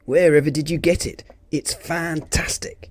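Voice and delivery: high, thrilled and admiring; starry-eyed high exclamation; excited friend. Acted. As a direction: gush over the car like a fan. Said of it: "said Jizzy".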